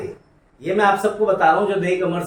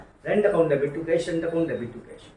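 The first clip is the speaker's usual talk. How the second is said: very slow, word by word rote chant; slow drill recitation; 2 semitones lower, 5 dB quieter, much slower than usual. Shown as a demonstration. Teacher shows students how to repeat an entry slowly. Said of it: "बार-बार उसको बोलना पड़ेगा".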